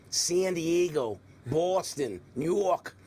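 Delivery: put-on old New York accent, drawn out slowly. Shown as a demonstration. Anchorman showing how he used to say city names, New York accent. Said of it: "fix your New York accent".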